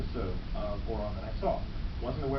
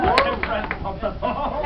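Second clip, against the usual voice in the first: laughing proclamation; 15 dB louder, much slower than usual. Pretend. Joking mock proclamation.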